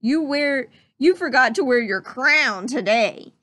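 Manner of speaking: mocking soldier voice; scoffing soldier. Soldier mocks the prince, lightly scoffing. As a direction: sneer at the so-called prince. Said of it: "scoffed a soldier".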